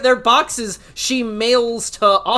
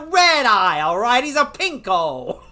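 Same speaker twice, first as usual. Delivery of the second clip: 1950s narrator; 2 semitones higher, faster than usual. Retold or imitated. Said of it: "talks like an old-timey radio person".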